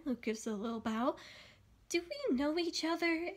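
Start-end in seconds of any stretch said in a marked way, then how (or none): 1.9-3.3 edge of anger. Acted. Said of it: "an edge of anger in her voice".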